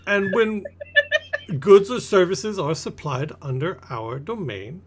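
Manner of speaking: lightly pompous, stretching the last words; deliberate merchant. Acted. Merchant explains his cut.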